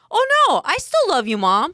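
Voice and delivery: high, sweet imitation of her son; a light, sugary take on the kid; mock sweet son. Mom imitating her son's reassurance, lightly high and sweet. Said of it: "then he said".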